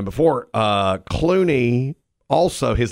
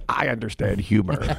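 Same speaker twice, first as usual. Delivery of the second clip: lightly imitated neurotic indignation; understated impression of a wounded protest; Richard Kind. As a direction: do a mild version of the exasperated man. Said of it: "the best Richard Kind impression".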